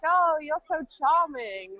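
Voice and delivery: mock-charmed gushing, drawn out; imitated admirers. Men charmed by her British accent, mock gushing. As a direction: slowly gush like a charmed admirer.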